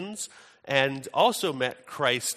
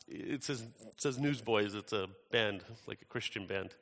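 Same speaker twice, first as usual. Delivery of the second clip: soft, hesitant reply, sinking lower; timid; 3 semitones lower, 7 dB quieter than usual. Retold or imitated. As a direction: imitate a timid friend answering cautiously. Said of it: "who's fairly timid, or was more timid".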